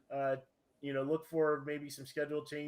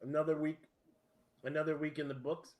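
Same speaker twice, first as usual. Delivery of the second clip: ice in mouth. Real, not acted. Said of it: "Try not talking with ice in your mouth".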